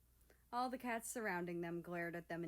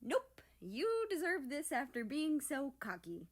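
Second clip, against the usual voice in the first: retorting; 6 semitones higher, 5 dB louder than usual. Acted. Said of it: "America retorted".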